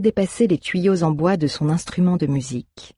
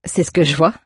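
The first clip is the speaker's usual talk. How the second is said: ironic. Acted. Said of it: "dit-elle avec ironie".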